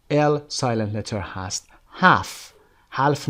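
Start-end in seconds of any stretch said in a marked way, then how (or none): 2.9-3.3 حلف with the l sounded, halfe; wrong pronunciation. Shown as a demonstration. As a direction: say half wrongly with its l. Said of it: "حلف نمیخونیم این رو".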